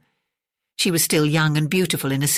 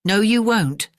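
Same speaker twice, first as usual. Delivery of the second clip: higher, ringing refusal; voice like iron gong; 6 semitones higher, 3 dB louder, slower than usual. A narrator's reading. Secretary defies the detective's arrest, in a ringing voice. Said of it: "in a voice like an iron gong".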